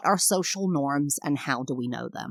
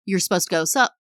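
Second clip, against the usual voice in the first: casual nod greeting; faster than usual. Retold or imitated. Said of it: "they go".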